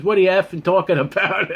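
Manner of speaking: high, laughing through a retold curse; imitating the friend's cursing with a laugh; laughing mock curse. Quoting his grateful friend's cursing, laughing. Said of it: "he started cursing at me".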